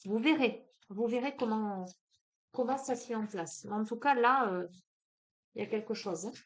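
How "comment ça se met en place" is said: ordinary talk, nothing marked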